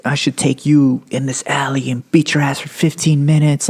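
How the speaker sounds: put-on police bully voice; imitated cop threat. Acting the cop threatening him.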